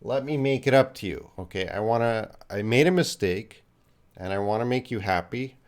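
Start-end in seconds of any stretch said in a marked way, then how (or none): 0.0-1.3 higher-pitched, mock-apologetic plea; acted apology. Teacher acting out breaking a student's phone, apologetic. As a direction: play at being sorry and eager to fix it. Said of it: "oh, I'm gonna say".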